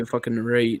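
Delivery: "right" with a slight Canadian accent. Shown as a demonstration. Showing friends how they say it, Canadian "right". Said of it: "I say".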